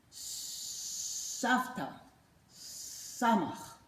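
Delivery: whispered Savta. Acted. Teacher whispering the letter word to kids. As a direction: breathe the word secretly.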